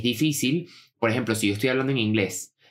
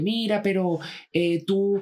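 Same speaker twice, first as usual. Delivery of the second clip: higher-voiced, tentative asker; genuine question; 8 semitones higher, much slower than usual. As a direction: imitate a hesitant questioner, pitched well up. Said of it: "les hacen preguntas genuinas".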